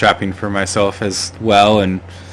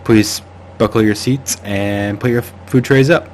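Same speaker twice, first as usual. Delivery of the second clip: lightly voiced airline pilot announcement; a hint of a captain on the intercom; pilot's voice. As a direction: address the cabin like a pilot, playfully. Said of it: "just like a pilot's voice".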